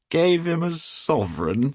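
high, loud, drawn-out disbelief; incredulous shout. A narrator's reading. Trevor amazed at his friend's gift, shouting. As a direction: shout it back as a delighted question. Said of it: "shouted Trevor".

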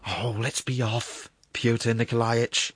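drawn-out pleading plea; impatient cry. A narrator's reading. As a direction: beg to leave, stretching the words. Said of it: "cried the prosecuting attorney".

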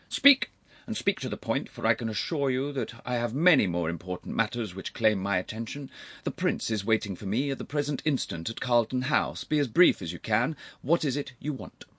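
lightly voiced brusque older gentleman; impatient uncle.

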